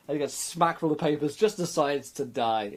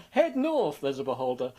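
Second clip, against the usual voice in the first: quoting Cody; slower than usual. Retold or imitated. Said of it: "I just wanna quote Cody".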